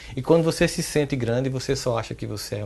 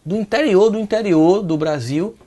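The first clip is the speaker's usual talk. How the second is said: "interior" hit louder and higher each repeat; emphatic repetition; 7 semitones higher, 7 dB louder than usual. Real, not acted. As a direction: punch "interior" to stress how remote. Repeats phrase to emphasise remoteness. (ênfase crescente em "interior")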